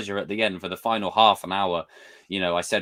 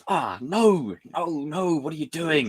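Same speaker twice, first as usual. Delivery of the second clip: flustered mock protest; 5 semitones higher, slower than usual. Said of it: "I was like".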